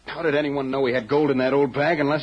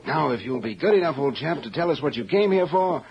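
a light fake upper-class English accent; put-on English accent; 4 semitones higher than usual. A hint of posh English put on for a visitor. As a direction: crook posing as an Englishman, lightly done. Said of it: "Don't forget your accent".

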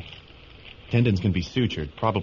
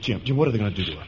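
alarmed; faster than usual. Acted. Boy alarmed at the scene.

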